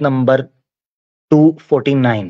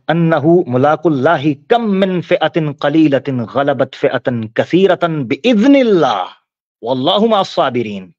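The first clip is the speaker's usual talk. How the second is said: slow, drawn-out Arabic recitation; measured scripture recitation; Quran recitation; slower than usual. Real, not acted. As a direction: recite the verse with long held vowels.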